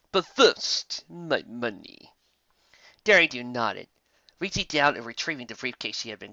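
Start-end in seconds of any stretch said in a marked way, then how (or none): 0.1-2.1 a villain savouring the demand; greedy villain. Acted.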